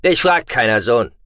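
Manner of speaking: loud, curt stern rebuke. Acted. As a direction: shut the son down hard. Father curtly silencing son.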